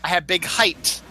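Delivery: "height" with a final T; standard height. Shown as a demonstration. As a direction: finish HEIGHT on a T, no TH. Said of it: "It's height".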